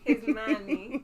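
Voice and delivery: His money, with money said as mäni, broad A; slow Italian-tinged His money, money as mäni. Retold or imitated. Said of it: "That's how my Italian friend says money".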